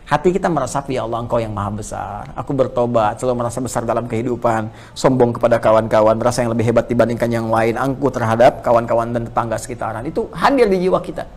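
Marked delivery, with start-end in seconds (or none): 0.9-10.1 hushed, inward confession to God; humble prayer. Acted. Preacher voicing a worshipper's repentant prayer, hushed.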